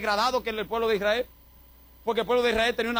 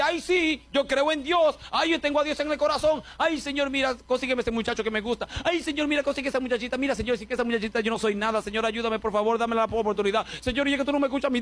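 mocking whiny prayer; 4 semitones higher than usual. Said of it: "que dice".

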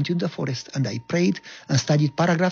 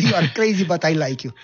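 amused repeat; 2 semitones higher than usual. Retold or imitated. Lieutenant to Goya, repeated with an amused lift. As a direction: toss it out again, delighted.

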